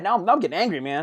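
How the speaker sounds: mock rising temper; getting angry. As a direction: act out anger starting to build. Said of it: "then you start getting angry".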